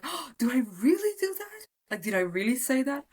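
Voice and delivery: high, delighted surprised gasp; lightly hammed-up wonder; mock amazement. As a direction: marvel at discovering a flaw.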